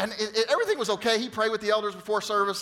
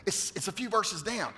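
whispered hint; 7 dB quieter than usual. Retold or imitated. Pastor quietly prompting the guest from the front row, hushed. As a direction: lean in and murmur it to him. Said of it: "I kinda whispered from the front".

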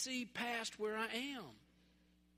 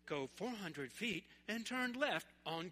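sat-nav voice. Retold or imitated. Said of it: "she would say".

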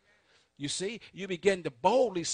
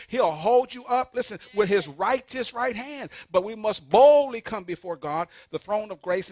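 preaching at full force; 3 semitones higher, 7 dB louder than usual. Real, not acted. Preacher swells on the promise.

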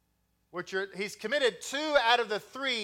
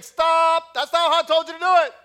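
higher, louder, fast barked correction; mock drill sergeant; 8 semitones higher, 10 dB louder than usual. Wife correcting her husband, mock shouted fast. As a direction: snap stop and rattle off the rest. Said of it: "she's like".

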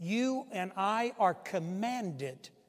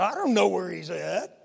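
sarcastic; 8 dB louder than usual. Retold or imitated. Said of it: "Cain was sarcastic with God".

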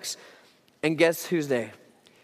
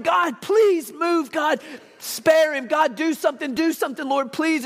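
pleading prayer; 6 semitones higher than usual. Retold or imitated. Believers praying earnestly for Peter, pleading. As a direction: beg God to move.

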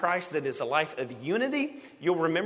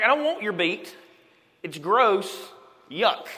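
louder, higher, disgusted refusal; mock disgust; 4 semitones higher, 5 dB louder than usual. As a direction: push the beets away with disgust.

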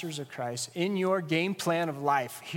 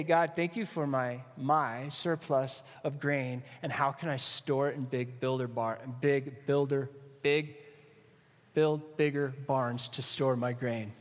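mock prayer of the rich farmer; 4 semitones lower than usual. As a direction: mumble the prayer like the greedy farmer. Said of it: "this rich farmer does is say".

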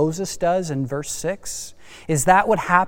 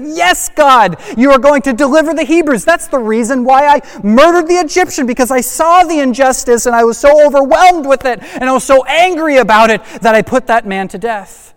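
high, loud and eager, rushing ahead; excited Moses; 7 semitones higher, 6 dB louder than usual. Acted. Moses cheering God on, bursting with excitement. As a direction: burst out thrilled, as if the rescue is finally here. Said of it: "He's excited".

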